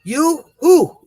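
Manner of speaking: Yoo-hoo sung high and bright; high sing-song call. Pretend. Comic greeting Yoo-hoo to an unknown costumed guest, high sing-song. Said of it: "And then you can say".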